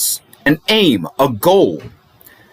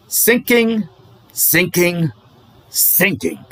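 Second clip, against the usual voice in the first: sinking away; 4 semitones higher, 3 dB quieter, slower than usual. Acted. Defense lawyer likening the case to a sinking ship, voice sinking. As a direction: let the word sink down, step by step.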